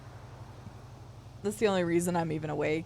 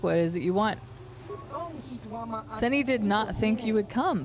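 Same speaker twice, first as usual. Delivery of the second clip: mysterious bounty hunter. Acted. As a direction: read the lines like a guarded informant. Reads NPC dialogue aloud.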